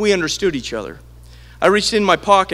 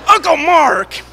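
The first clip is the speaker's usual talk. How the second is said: put-on child calling out; 11 semitones higher, 7 dB louder, slower than usual. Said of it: "and then he'd go".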